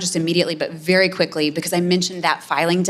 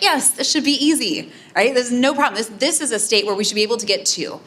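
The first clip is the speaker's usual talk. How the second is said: higher, breezy official sure it's easy; mock confident administration; 5 semitones higher than usual. Speaker imitating the presidential administration's view of Indiana, higher and cocky. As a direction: play the White House aide who thinks it's a lock. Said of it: "you're like".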